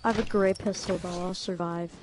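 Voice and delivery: sarcastic. Real, not acted. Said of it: "that was sarcasm".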